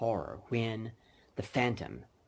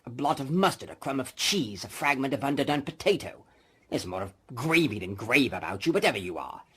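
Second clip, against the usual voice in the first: a lightly voiced, louder scoffing old miser; Scrooge voice; 5 dB louder than usual. Scrooge dismissing the ghost, louder scoffing. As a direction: scoff at the ghost as a bit of beef.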